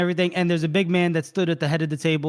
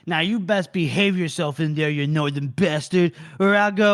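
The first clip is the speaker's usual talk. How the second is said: lightly voiced gruff guard. Guard warns Shivers to behave in the tent, mock threat. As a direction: play a warning guard, lightly hammed-up.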